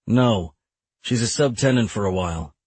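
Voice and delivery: short, understated brush-off; curt. Acted. Lawyer answers opposing attorney about the woman in the hall, curtly. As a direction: answer curtly, closing the subject. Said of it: "I said curtly".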